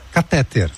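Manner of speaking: catéter stressed on the middle syllable, open É; pronounced catéter. Shown as a demonstration. Reading out a listener's local pronunciation, catéter stressed on TÉ. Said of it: "Por aqui falamos".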